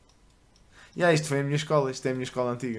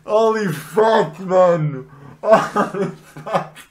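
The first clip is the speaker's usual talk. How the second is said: laughing disbelief; 5 semitones higher, 5 dB louder, much slower than usual. Real, not acted. Reacting, laughing.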